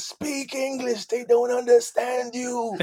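high, slow, pressing instruction; urgent stage aside. Retold or imitated. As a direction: hiss a correction to a bandmate. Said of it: "He said".

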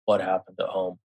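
quiet stunned inner voice; inner thought. Retold or imitated. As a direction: mutter it to yourself in shock. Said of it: "I'm thinking to myself".

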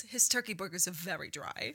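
a light first pass at Bootsy; hint of Bootsy's fussy complaint; Bootsy impression. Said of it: "You do a really good Bootsy impression".

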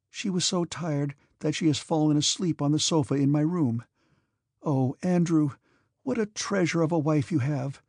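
put-on gentle young woman voice. Princess Mary speaking.

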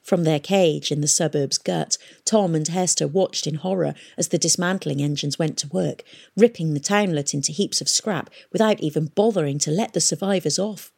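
plain reading voice

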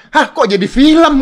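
high, loud, slow "Hah, kok jadi film?" with a laugh; confused outburst. Retold or imitated. Retelling his confused reply to the chat, high and laughing. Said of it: "Gua bilang".

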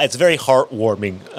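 yawning through it. Real, not acted. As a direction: say it mid-yawn. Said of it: "The way you said heartwarming?".

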